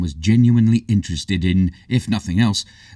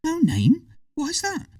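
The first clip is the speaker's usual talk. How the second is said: put-on surprised girl; slower than usual. A narrator's reading. Hazel surprised.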